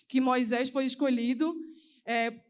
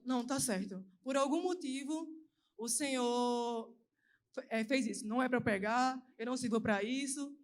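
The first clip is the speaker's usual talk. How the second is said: soft, defeated, close to tears; quiet, broken acceptance; tearful resignation; 6 dB quieter than usual. Retold or imitated. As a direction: murmur it as if giving up. She was crying, voiceless, at church.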